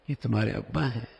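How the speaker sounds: "ابا ہیں" asked as a simple question; questioning tune. Shown as a demonstration. Asking a child about the bearded man, questioning. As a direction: ask plainly whether these are "ابا". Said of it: "ایک مطلب تو یہی ہے کہ سوال کیا جا رہا".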